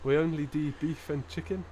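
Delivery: lightly put-on Geordie punchline; attempted Geordie accent. Joke's takeaway man replying to customer, attempted Geordie accent. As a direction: deliver the punchline in makeshift Geordie. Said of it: "put on your Geordie voice now".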